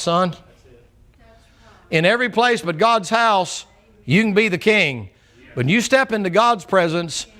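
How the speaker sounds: firm priest. Acted. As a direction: lay down the law, politely.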